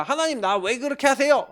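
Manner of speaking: protesting to God. Retold or imitated. Pastor asking God why life is so hard, protesting. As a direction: press God for a reason, re-enacting it. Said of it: "질문하고 따졌는데".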